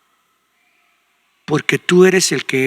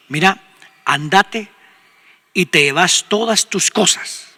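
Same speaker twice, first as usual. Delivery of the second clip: slow, deliberate stress on "todas"; emphatic dismissal; slower than usual. Acted. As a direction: send them off, drawing out "todas tus cosas". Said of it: "de énfasis".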